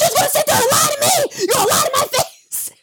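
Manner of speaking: high, laughing mock shout; mocking angry dad. Wife mocking her husband confronting their son. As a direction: ham up the furious parent while laughing. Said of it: "That's what it looked like".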